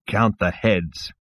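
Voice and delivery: slow rasped reply; low rasp. Acted. Zaphod reveals himself to the insect, in a low rasp. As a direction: rasp it out slowly. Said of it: "said Zaphod in a low rasp".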